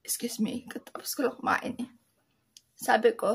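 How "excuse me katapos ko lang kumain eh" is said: whispered aside. Real, not acted. Excusing herself, just finished eating.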